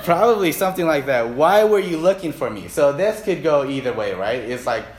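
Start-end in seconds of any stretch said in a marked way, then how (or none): 1.3-2.7 higher, louder mock challenge; acted indignant questioning of parents; putting it on them. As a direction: throw the question back accusingly. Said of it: "Putting it on them".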